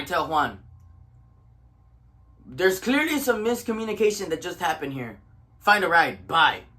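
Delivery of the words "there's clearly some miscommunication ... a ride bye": firm brush-off ending on a punched "bye"; retold no-nonsense send-off; curt dismissal. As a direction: tell someone off briefly, then cut them loose. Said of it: "I say it like that".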